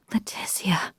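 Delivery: breathy sigh into her name; sighing whisper. Acted. Sighing Leticia's name before giving advice, whisper. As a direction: let it out on a sigh.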